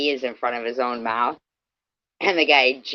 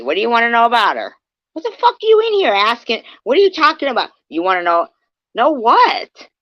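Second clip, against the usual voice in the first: high, loud and fast, real fury at the chat; angry outburst; 8 semitones higher, 6 dB louder, faster than usual. Real, not acted. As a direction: fire questions back at them, furious and quick. Angry rant at trolls in chat.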